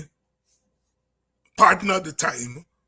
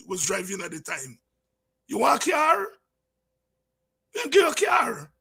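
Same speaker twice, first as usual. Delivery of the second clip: mocking scold; 3 semitones higher than usual. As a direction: taunt him like a scornful comrade. Party members mock him.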